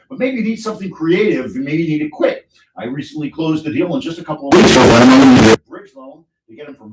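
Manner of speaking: upbeat radio commercial voice; ad read. Acted. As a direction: pitch it like a local ad.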